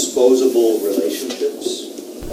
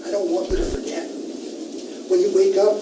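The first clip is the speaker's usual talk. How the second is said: high-pitched surfer-dude douchebag read-aloud; 9 semitones higher than usual. Acted. Teacher performing the novel's ending for students, in a surfer-dude douchebag voice. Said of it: "in a kind of surfer dude, uh, douchebag, uh, voice".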